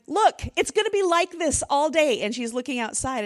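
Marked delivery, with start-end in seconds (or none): 0.1-2.2 higher, louder voice of a gloomy daughter; imitating daughter.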